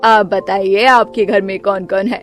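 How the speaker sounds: low, bossy mother-in-law voice, stretched call; stern mother-in-law. Acted. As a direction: play the grumpy saas calling her daughter-in-law.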